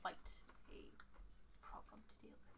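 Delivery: soft, halting, fading to near whisper; older fey woman. Acted. Fey woman revealing a problem, hushed and halting. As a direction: pause between words and let it fade. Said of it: "and she goes".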